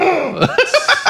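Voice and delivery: high, laughing gasp; a thrilled sharp intake of breath; excited gasp. Retold or imitated. Reacting to Oprah's promise.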